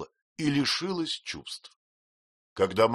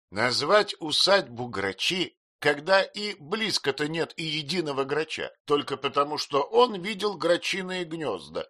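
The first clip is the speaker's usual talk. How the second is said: scornful aunt; 8 semitones higher, 4 dB louder than usual. A narrator's reading. Aunt derides the dead husband's naming, scornfully. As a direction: sneer at his foolishness.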